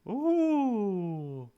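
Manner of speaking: put-on high, slow ghost girl; drifting, wistful ghost. Plays the ghost.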